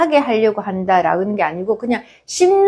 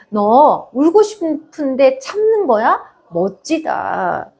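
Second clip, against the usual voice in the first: put-on gentle praise to child; 3 semitones higher, slower than usual. Shown as a demonstration. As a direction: ask it gently, like a mother kneeling by her child. Mother praising child for holding tears.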